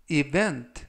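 "event" with stress on the -vent syllable; stress on the second syllable. Shown as a demonstration. Teacher models where the stress falls in "event". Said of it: "강세는 가운데 부분에 있는 알파벳 E에 강세".

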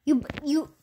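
whispering. Real, not acted. Whispering to pet dog.

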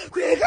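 imitated cricket chirp; mimicked cricket noise; cricket sound. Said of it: "let me make that cricket sound".

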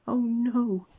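high, loud cry of dismay; horrified gasp. A narrator's reading. Mister Mean's nose becomes a carrot, gasping in horror. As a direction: exclaim in shock. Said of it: "he gasped".

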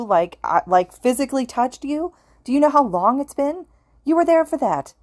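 a ghost losing his grip, half frantic; frantic ghost pleading to be believed, near hysterics. A narrator's reading. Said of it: "Oboro was almost in hysterics".

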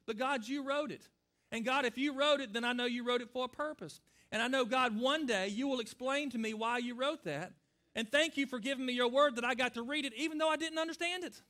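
sample prayer. Shown as a demonstration. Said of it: "you just pray".

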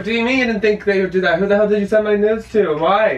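angry. Real, not acted. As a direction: demand answers, voice climbing. Confronting boyfriend over nudes.

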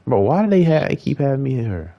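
real frustration; exasperated shout. Real, not acted. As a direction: protest at the game. Game keeps making him hit her.

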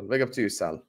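put-on a weak, half-hearted Scouse accent; bad Scouse accent. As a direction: try a Scouse accent and barely land it. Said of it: "the worst Scouse accent I've ever done".

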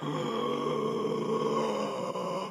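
|| long, soft, rising breath; a famous tenor. Shown as a demonstration. Coach showing a tenor's breathing, long breath. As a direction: draw a long open-throated breath. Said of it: "demonstrate breathing like that".

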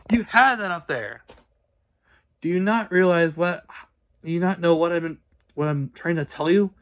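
loud exasperated shouting; yelling. Real, not acted. Creator shouting at a repeat offender on the wiki, exasperated. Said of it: "I'm sorry for yelling".

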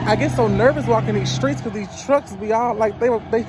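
nervous, stumbling into a laugh; rattled by the passing trucks; real nervous wobble in the voice; voice shaking. Real, not acted. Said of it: "hear my voice shaking".

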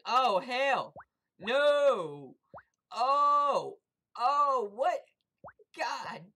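very loud, high frantic shrieks; frantic screaming. Real, not acted. Gamer about to be eaten, frantic high screams. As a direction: shriek in total panic. Being chased down, panicking.

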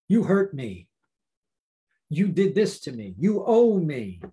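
lightly acted grudge-holder; mock accusation. Grudge-holder to offender, accusing with mild force. Acts out someone holding a grudge.

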